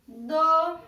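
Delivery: "Domínio" as do, mí, nio with long pauses; syllable by syllable. Shown as a demonstration. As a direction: dictate "Domínio" one syllable at a time. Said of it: "vão separar em sílabas".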